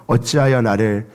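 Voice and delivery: low, hushed lament; anguished cry. Acted. Jesus on the cross calling to God, low and hushed. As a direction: let the question sink in despair. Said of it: "하나님 앞에 절규하였습니다".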